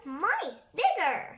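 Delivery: slow, sharp retort; snapped. Acted. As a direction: snap back at the rival. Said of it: "snapped Gator".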